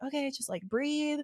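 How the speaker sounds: soft, calming husband; retold soothing. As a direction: gently talk someone down. Retelling husband calming her down.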